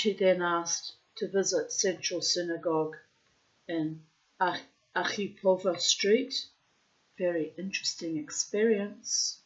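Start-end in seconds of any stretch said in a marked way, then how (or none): 1.2-9.4 put-on Russian accent. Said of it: "I'm putting in the Russian accent".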